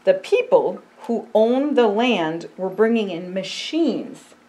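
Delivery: slow, earnest picture-book reading; storybook voice for a child. Acted. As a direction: tell it gently to a young listener.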